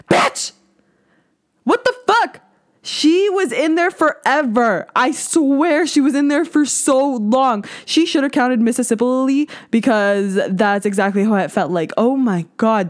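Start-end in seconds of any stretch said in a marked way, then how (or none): 0.1-2.4 high mock yelp of pain; pained outburst. Reliving the swab pain, high-pitched mock shock. 2.8-9.5 slow, high drawn-out disbelief; exasperated complaint. Real, not acted. Complaining to listeners about the long swab, drawn out. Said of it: "exaggerated complaint".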